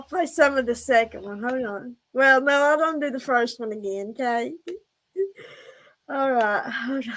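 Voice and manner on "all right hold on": breathless after laughing; out of breath. Real, not acted. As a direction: catch your breath between words. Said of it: "I'm out of breath".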